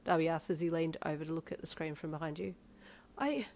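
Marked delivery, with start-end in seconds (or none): 3.2-3.5 high loud joyful screaming; ecstatic screaming. A narrator's reading. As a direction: scream with pure relief. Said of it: "Your scream could have been heard".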